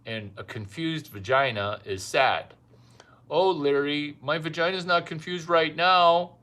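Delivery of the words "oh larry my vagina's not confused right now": mock woman's voice. Woman voiced praising Larry.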